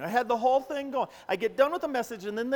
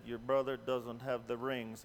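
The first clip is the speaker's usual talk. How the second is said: lower, softer, stunned; stunned hush; 11 semitones lower, 7 dB quieter than usual. Retold or imitated. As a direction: breathe it out in disbelief. Quiet dread realization.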